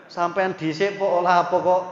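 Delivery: a brat talking back to an elder; mock cheeky shout.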